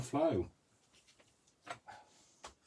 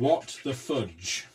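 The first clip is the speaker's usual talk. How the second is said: mock exasperated; 3 semitones higher, 4 dB louder, much slower than usual. Shown as a demonstration. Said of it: "W T F".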